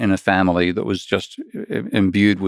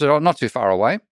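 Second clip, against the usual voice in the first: lightly voiced laid-back Aussie bloke, higher; Aboriginal mates chatting; 6 semitones higher than usual. Retelling a TikTok, a hint of an easygoing Aussie mate. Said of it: "he goes up to another Aboriginal mate and says".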